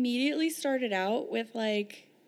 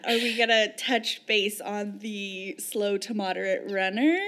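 mock indignant; 4 dB louder than usual. Mock complaint to running book.

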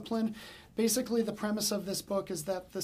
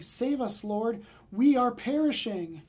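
panicked plea; 2 semitones higher, 5 dB louder, slower than usual. Acted. Disciples cry out in storm.

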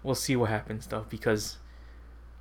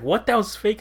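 high, louder mock disbelief; pitched-up incredulous outburst; imitated shocked friend; 11 semitones higher, 5 dB louder than usual. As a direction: blurt it like the duped friend. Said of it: "And he's like".

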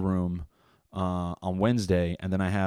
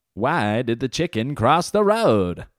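hacky joke delivery; 4 semitones higher, 5 dB louder, slower than usual. Retold or imitated. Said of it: "It's like a, you know".

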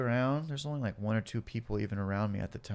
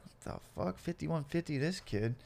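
hushed, higher-pitched mock disbelief; baffled cop; 4 semitones higher, 6 dB quieter than usual. Cop to colleagues about ranting suspect, hushed bafflement. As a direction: softly act a bewildered officer. Police baffled by his rant.

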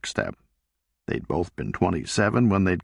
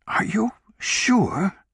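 whispered; 13 semitones higher, much slower than usual. Acted. Stunned wife on the phone.

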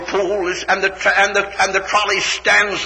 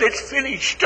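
soft, hushed echo; whispered; 5 semitones higher, 6 dB quieter than usual. A narrator's reading. The flowers whispering to the trees, hushed. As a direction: whisper it onward. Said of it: "the flowers whisper to the trees".

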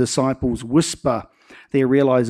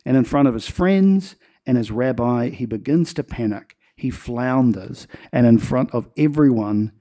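ordinary talk

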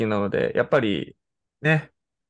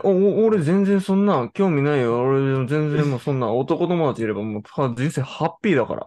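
stammering, higher fake indifference; mock nonchalant boy; 4 semitones higher than usual. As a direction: play it cool but stutter. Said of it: "みたいな顔してますけど". (強がる男子の真似)

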